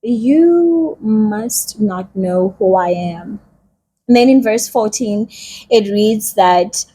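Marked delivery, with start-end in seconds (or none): 0.0-3.4 Gideon doubting. Retold or imitated. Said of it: "Gideon is like".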